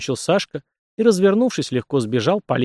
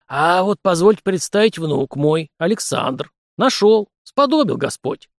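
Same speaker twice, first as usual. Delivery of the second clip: put-on old prince; 5 semitones higher, slower than usual. A narrator's reading. Old prince presents grandson.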